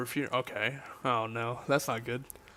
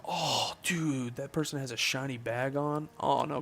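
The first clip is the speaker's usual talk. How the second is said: raised, drawn-out amazed 'oh, dude'; excited reaction; 3 semitones higher than usual. Real, not acted. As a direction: react to a rare sighting on stream. Excited reaction to shiny in game.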